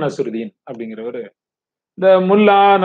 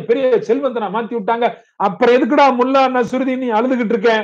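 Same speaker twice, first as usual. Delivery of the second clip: high-pitched acted fury; extremely angry; 6 semitones higher than usual. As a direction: berate the crying man, pitch driven way up. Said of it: "இப்ப அவருக்கு உச்சபட்ச கோவம் வந்துருச்சு".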